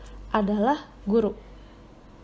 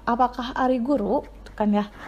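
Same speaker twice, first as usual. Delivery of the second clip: usual speaking voice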